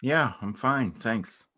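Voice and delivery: over-bright small talk to hide nerves; awkward brightness. Acted. Two exes meeting by chance, nervously bright.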